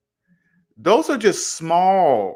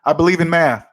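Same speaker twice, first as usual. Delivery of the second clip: deadpan answer; 3 dB louder than usual. Shown as a demonstration. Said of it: "Just say it like that".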